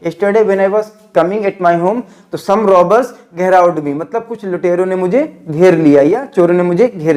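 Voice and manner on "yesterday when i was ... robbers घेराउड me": slow model sentence. Shown as a demonstration. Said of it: "क्या बोलेंगे?".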